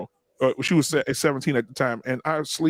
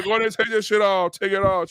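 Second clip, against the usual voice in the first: raised-pitch stern dad order, lightly acted; a hint of comic dad outrage; Bernie Mac; 4 semitones higher than usual. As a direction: lay down the law, mock-stern. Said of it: "I told her just like that".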